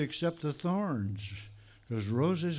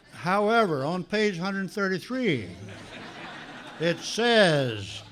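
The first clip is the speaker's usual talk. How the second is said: laughing; 5 semitones higher, 5 dB louder, slower than usual. Real, not acted. Laughs over the big book gurus.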